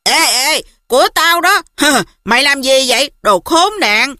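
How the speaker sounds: angry yell at the dog; shouting. Acted. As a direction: shout it, outraged. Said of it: "hét toáng lên".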